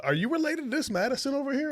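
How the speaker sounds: high-pitched imitation of an acquaintance; retold question in a high voice; Flojo. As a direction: ask it way up high, as him. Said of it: "He was like, uh".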